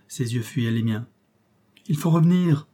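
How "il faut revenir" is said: higher, insistent exclamation; urgent cry. A narrator's reading. Nephew begging his uncle to turn back, urgent cry. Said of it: "m'écriai-je".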